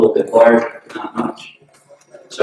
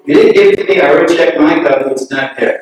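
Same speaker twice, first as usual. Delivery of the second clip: angry retort; 4 semitones higher, 4 dB louder, faster than usual. Retold or imitated. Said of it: "He was getting angry".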